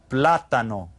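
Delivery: "Plátano" with the accent on PLA; stress on first syllable. Shown as a demonstration. Teacher pointing out the written accent, stress on first syllable. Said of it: "it's got the accent there".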